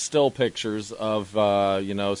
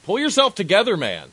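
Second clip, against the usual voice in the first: mock comedy-sketch shout, much higher and louder; SNL skit voice; 9 semitones higher, 4 dB louder than usual. Co-host mocking killer's voice as a comedy sketch, hammed-up high loud shout. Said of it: "this voice comes out of him and he's like".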